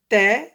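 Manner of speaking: "Ta" said alone, loud, tongue at the teeth; tongue-at-teeth sound. Shown as a demonstration. Teacher shows where the tongue goes, emphatic demo. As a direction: hit "Ta" loudly from the teeth and open the mouth. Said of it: "c'est la langue entre les deux dents".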